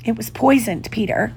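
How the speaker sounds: weak, gentle confession; soft. A narrator's reading. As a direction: tell him softly, fading on the name. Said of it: "she told him softly".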